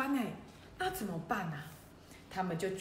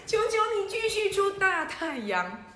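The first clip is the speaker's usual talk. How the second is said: high, loud begging shout with 求 punched; shouting plea; 10 semitones higher, 4 dB louder than usual. Acted. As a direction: cry up at the sky god for sunshine. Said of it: "对着雷神大喊". (大声高喊哀求)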